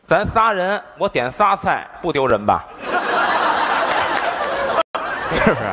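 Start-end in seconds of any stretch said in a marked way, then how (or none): 2.7-5.4 crowd laughter. Real, not acted. Audience laughs at the joke.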